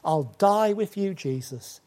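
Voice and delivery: a touch of proud insistence; emphatic boast. Retold or imitated. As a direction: swear it with mild bravado. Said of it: "he's so emphatic".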